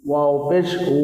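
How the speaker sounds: "ওয়াও পেশ উ" with rounded lips on "উ"; spelling drill ending in a rounded "উ"; rounded vowel. Shown as a demonstration. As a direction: round the mouth for the final "উ". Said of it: "মুখটা একটু গোল হবে".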